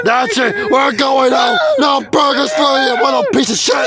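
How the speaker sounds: screaming, high and loud; shaking with anger; furious yelling. Acted. Parent ends trip angrily.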